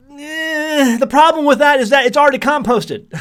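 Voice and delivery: amused, laughing it off; laughing while correcting the advice. Real, not acted.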